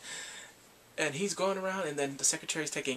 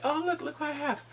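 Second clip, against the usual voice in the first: higher, taunting show-off; challenging taunt; 11 semitones higher than usual. Retold or imitated. Kidnapper texting Bongsu to challenge her, mock taunt. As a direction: dangle it as a challenge. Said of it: "challenging her".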